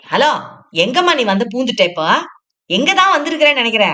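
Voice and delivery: fast, sharp scolding of a stranger; angry scolding. Acted. Parvathammal scolding the newcomer, angry and fast. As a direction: shoo her off, indignant and quick. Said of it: "ஏன் இவ்வளவு கோவமா பேசுறீங்க".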